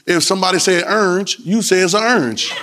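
"orange" squashed to one syllable, "ernj"; local dialect pronunciation. Shown as a demonstration. Preacher teasing congregation about accents, local pronunciation. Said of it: "everybody got a different accent in here".

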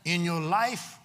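emphatic preaching with long pauses between phrases. Real, not acted. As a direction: drive each phrase home to the congregation. Preaches to the congregation.

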